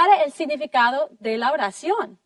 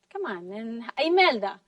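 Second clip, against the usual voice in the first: ordinary talk, nothing marked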